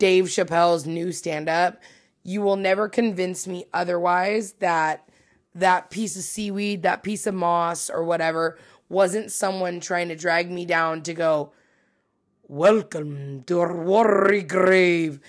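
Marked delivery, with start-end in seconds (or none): 12.5-15.1 put-on, slow, drawn-out, very Scottish accent. Retelling a stand-up bit, voicing the seaweed, sounding very scottish. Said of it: "I sounded very Scottish".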